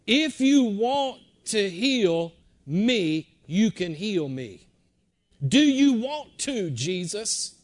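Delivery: loud, slow pleading; begging. Retold or imitated. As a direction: press the plea hard like a desperate leper. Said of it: "I'm gonna put it in modern vernacular".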